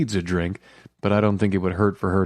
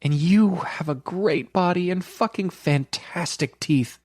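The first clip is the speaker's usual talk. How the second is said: 1 lightly voiced eager woman; 11 semitones higher than usual. A narrator's reading. Carrie complimenting his body.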